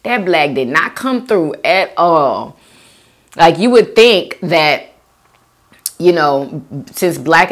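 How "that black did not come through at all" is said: whispered reaction. Retold or imitated. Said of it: "I'm like".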